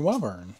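wyvern with a long i, WHY-vern; hard Y. Shown as a demonstration. Naming the dragon card, wyvern with hard Y. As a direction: open "wyvern" with the word "why". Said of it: "I like the hard Y".

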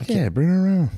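high, sarcastic mock welcome; mock eager. Friends mocking the Frenchman's request, high and sarcastic. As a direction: squeal it like an overeager host.

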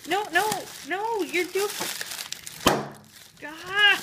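high, laughing protest; giggling no no no. Real, not acted. Laughing at husband's attempt.

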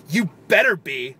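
slow, teasing threat; mock menacing. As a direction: lean on better, half joking. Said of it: "mean, menacing voice".

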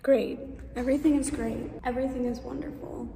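soft, deadpan sarcasm; sarcastic. Real, not acted. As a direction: say it like nothing is great. Sarcastic after camera failure.

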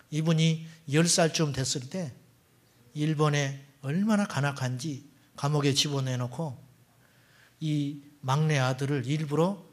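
ordinary talk, nothing marked

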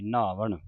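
ਨਹਾਵਣ with a heavy, aspirated h; heavy nahavan. Shown as a demonstration. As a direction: put weight on the h in ਨਹਾਵਣ. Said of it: "ਇਸ ਨੂੰ ਭਾਰਾ ਉਚਾਰਨ ਕਰਨਾ ਹੈ". (ਭਾਰਾ ਉਚਾਰਨ ਨਹਾਵਣ)

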